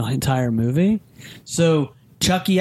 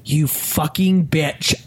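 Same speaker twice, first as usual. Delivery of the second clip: aggressive. Retold or imitated. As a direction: imitate a cursing killer doll, mildly. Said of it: "like, aggressive".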